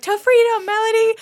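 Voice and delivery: high-pitched, triumphant mock-child cry; Bobby. Little girl leading her cow to freedom, high mock-child voice. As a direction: play a little kid heading off on an adventure. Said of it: "and she's like".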